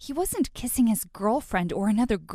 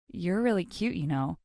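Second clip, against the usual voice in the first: flirty; 4 semitones lower, 4 dB quieter than usual. Acted.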